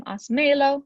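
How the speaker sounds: "asmelo" stressed on the middle syllable, as-ME-lo; misplaced stress on ME. Shown as a demonstration. Teacher showing the unaccented command, "asmelo" wrongly stressed on ME. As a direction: lean on ME in "asmelo". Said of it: "add that accent so that it doesn't".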